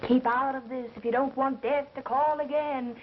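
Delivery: slow, mild mock-phantom quote; imitated crazy voice. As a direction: imitate a threatening voice, drawing it out. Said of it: "I heard that crazy voice say".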